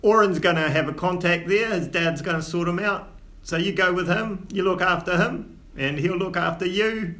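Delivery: lightly voiced Cockney dwarf dad, scolding but fond; dwarf father in Cockney. Old dwarf father chiding his son, lightly Cockney.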